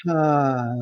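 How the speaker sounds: low, drawn-out airy ha; audible exhale. Shown as a demonstration. Coach leading a breathing exercise, exhaled ha. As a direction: breathe out slowly on the syllable.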